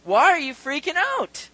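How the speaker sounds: high, loud self-reproach; emphatic rallying call to oneself; scolding himself. Acted. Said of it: "the psalmist is speaking to himself".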